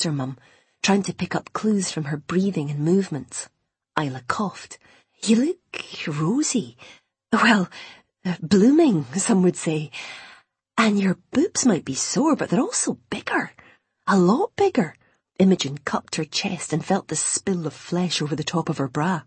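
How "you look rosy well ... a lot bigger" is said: higher, teasing mum hinting; hint at it knowingly like a mother; coy motherly voice. Acted.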